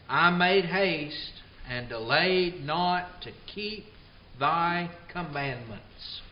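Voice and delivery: slow, measured reading of the verse; solemn scripture reading. Acted. Preacher reading Psalm 119 to the congregation, slow and solemn. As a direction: let each phrase of scripture land, slowly.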